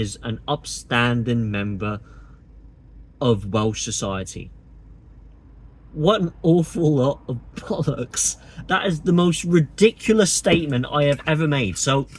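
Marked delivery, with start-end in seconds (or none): 5.9-8.4 laughing through the words in disbelief; laughing scorn. Real, not acted. Vlogger laughing off a politician's claim, scornful laugh. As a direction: scoff it out, breaking into a laugh. Scoffing at Farage's Welshman definition.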